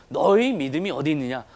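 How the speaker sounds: understated reproach; retold rebuke. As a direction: quote a scolding with restrained force. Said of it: "호통하신다는 말씀이에요".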